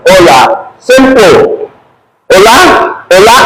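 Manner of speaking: "Hola" with silent H: O-la; Spanish pronunciation. Shown as a demonstration. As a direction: drop the H and say "Hola" as O-la. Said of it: "So this is the pronunciation".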